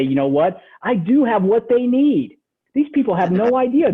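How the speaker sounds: convince yourself, stretching the key words; self-affirming. Retold or imitated. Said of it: "I was clearing my mind to say".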